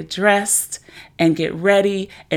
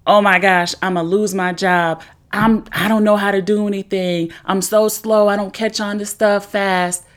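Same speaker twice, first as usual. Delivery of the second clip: louder, rushed panicky inner voice; panicked self-talk; 2 semitones higher, 4 dB louder than usual. Shown as a demonstration. New hire panicking to herself over the email, louder and frantic. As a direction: spiral into panic about the job. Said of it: "Doesn't that feel better than".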